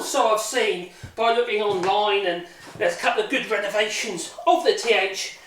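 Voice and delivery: breathless after heavy lifting; talking out of breath, panting lightly. Real, not acted. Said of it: "so I'm out of breath".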